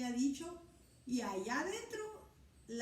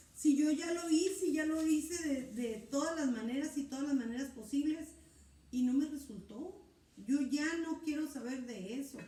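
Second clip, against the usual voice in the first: exasperated refusal; 4 semitones higher, 5 dB louder than usual. Acted. Believer voiced refusing, exasperated.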